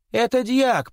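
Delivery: high astonished cry. Acted. Chub recognizing the deacon in the sack, astonished. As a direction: blurt it out, stunned. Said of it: "произнёс изумившийся более всех Чуб".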